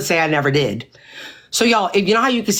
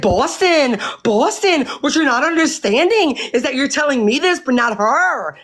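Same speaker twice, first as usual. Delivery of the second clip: calm explaining; 9 semitones higher than usual. Retold or imitated. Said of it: "That's how I was talking".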